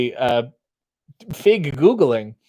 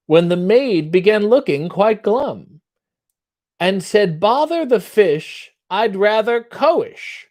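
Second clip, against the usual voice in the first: lightly put-on posh British accent, reciting; an American pretending to be British; mock British theatre accent; 2 semitones higher, slower than usual. Reading limericks to the chat in a mock British accent. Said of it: "what is that accent you're doing".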